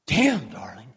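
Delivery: stunned question. Retold or imitated. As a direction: ask in open disbelief. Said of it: "and he goes".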